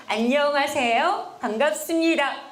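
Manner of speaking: 1 warm greeting. Shown as a demonstration. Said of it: "손을 동그랗게 쓰시면서 인사를".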